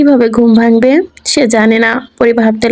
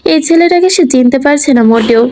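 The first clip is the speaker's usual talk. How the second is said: plain reading voice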